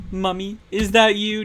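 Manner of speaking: high, loud put-on little girl voice; mock childish voice. Mocking the game heroine, in a high put-on child voice. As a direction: squeak it like a scared kid.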